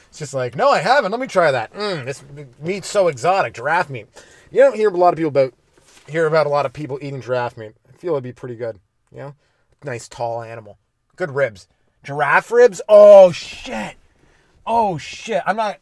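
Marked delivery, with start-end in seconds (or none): 0.6-4.1 higher and louder, keen to taste; hammed-up eager taster. Excited cavemen trying giraffe meat. 12.9-15.8 much louder, higher burst of alarm; loud startled realization; shocked outburst. Real, not acted.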